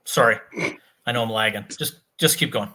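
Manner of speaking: choppy laggy connection; glitchy robot voice over bad internet; robotic lag. Real, not acted. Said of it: "you sound like a robot".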